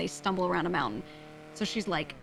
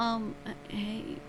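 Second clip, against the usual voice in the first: utterly weary, drained, worn-out voice; 3 semitones higher, 3 dB quieter than usual. Retelling how the person called answered the phone, imitating Shang's weary voice. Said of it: "answers the phone with the most weary voice".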